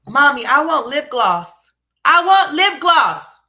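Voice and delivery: put-on slow, high, loud whiny little boy voice; mock a begging kid; hammed-up whining child. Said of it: "mocking child and mom scene".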